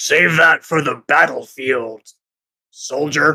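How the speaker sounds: gruff, blunt voice. Game master voicing someone to the player's right: gruff voice. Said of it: "a gruff voice to your right says".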